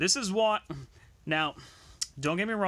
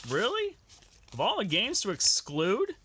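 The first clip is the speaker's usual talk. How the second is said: incredulous; 3 semitones higher than usual. Real, not acted. Disbelief at missing game.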